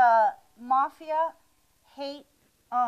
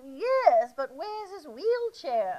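tearful wife; 3 semitones higher, much slower than usual. Acted. Wife answers in joke punchline.

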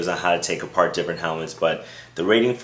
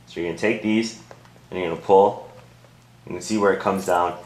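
through helmet face cage; speaking inside padded helmet; wearing football helmet. Real, not acted. Seen 2: Helmet with face cage on head throughout; R frames show it off.

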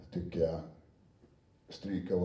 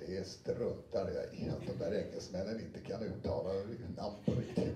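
mock grumpy reader; 4 dB quieter than usual. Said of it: "då säger Christer".

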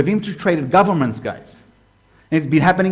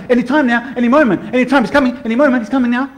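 higher, eager chant mocking the impatient; a hint of jittery end-times expectation, higher pitched; mock anxious rapture watcher; 5 semitones higher, faster than usual. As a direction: rattle it off like someone sure it's any second now. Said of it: "All right, calm down, dude".

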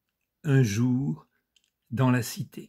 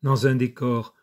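measured recital, pausing between images; poised reading of a poem; poetry reading. Acted. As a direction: recite it phrase by phrase, letting line endings fall. Reads his friend's poem aloud.

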